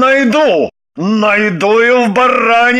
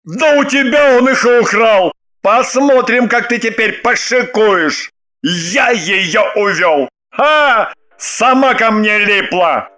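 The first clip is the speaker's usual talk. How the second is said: quarrelling husband; 4 semitones higher, slower than usual. Acted.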